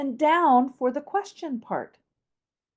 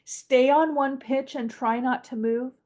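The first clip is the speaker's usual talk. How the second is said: flat, level tune throughout; monotone. Shown as a demonstration. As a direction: stay on a single pitch. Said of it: "Do it again".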